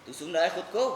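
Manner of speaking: controlled, disbelieving question; restrained rebuke, rising at the end; contained reproach. Acted. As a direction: ask it firmly without shouting. Mother's first, contained reproach.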